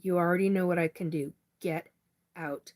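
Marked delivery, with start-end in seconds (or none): 1.6-2.7 real anger. Real, not acted. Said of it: "And now I'm pissed".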